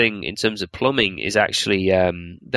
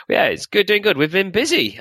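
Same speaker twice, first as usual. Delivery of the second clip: stuffy nose from a cold; blocked nose, nasally; 9 semitones higher than usual. Real, not acted. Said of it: "apologies for if I sound all nasally".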